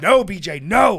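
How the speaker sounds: loud, high yell through laughter; mock alarmed shout. Warning friend off the rum, loud laughing mock shout. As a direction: holler a joking protest.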